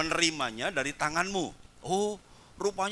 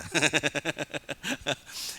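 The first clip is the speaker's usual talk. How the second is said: laughter; 4 semitones lower than usual. Real, not acted. Laughs with congregation.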